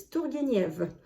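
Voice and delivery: Turgenev with French vowels; French pronunciation. Shown as a demonstration. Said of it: "In French".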